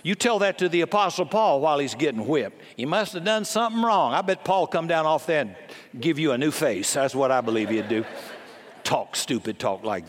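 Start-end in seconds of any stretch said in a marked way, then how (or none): 2.8-4.2 higher, scornful imitation of a smug Christian; mocking quote. Preacher mocking Christians who blame sufferers, higher and scornful. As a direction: mimic the know-it-all with scorn. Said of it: "I hate that when Christians say that".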